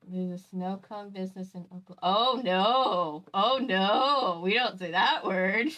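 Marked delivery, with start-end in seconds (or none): 2.0-5.7 louder, drawn-out "oh no"; alarmed disapproval. Real, not acted. Reacting to a taboo word, dismayed disapproval. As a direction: warn them off that word.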